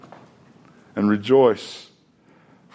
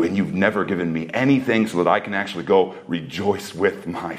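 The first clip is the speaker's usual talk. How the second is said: put-on resentful older son. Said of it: "how the older son talks".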